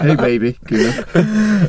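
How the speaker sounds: teasing sweet-talk. Pretend. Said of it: "that's your girlfriend".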